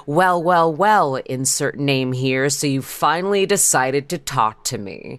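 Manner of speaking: horny killer voice. Retold or imitated. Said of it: "in the horniest fucking voice".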